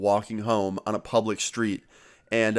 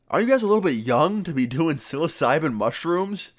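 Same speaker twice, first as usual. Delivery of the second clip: incredulous cop; 5 semitones higher than usual. Retold or imitated. Cop questioning young teens about mushrooms.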